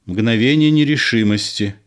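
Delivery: ordinary delivery, nothing marked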